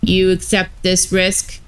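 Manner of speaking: lightly voiced robot warden; even, mechanical robot delivery. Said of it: "had robot voices".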